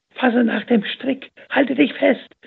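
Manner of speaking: slow, high, loud call down into the cistern; man yelling down a well to a drowning child. A narrator's reading. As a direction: shout it down to the girl below. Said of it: "rief er Nuseira zu".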